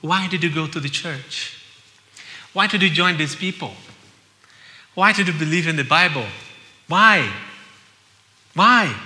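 building to a loud challenging why; mocking critics. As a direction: critics questioning the believer, rising to a shout. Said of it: "they're gonna say to you".

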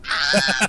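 loud retold cry of delight; fangirl scream. Fan seeing her signed DVD, screaming.

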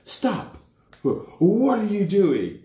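high, slowed-down mock challenge; retold guard challenge. Guard challenges the people running, high mock call. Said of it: "these guards are like".

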